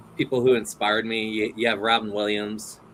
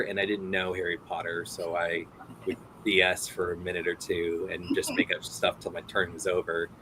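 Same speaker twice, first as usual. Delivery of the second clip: ordinary talk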